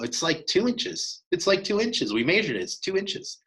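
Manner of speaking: retold exasperated insistence, high; insistent protest. Retold argument over antler length.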